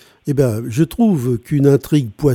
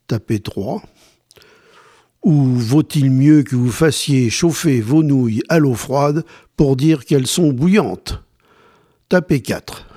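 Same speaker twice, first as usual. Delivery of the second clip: automated phone menu. Acted. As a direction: read options like a hotline. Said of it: "poll read as phone menu".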